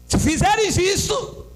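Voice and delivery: slow, high proclamation building through repeats; scripture declamation. Real, not acted. Preacher reads God's promise to the church, declaiming. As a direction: draw out the promise, hammering each repeat.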